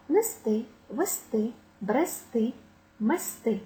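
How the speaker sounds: нести, вести, брести, мести each stressed on ТИ; final-syllable stress. Shown as a demonstration. Teacher listing verbs, stress on last syllable. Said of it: "На останній склад падає наголос".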